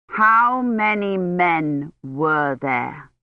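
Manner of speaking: slow, each word pressed; emphasizing every word. A narrator's reading. Knight asking the stranger about attackers, slow and emphatic. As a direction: drag every word out clearly. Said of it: "emphasizing every word".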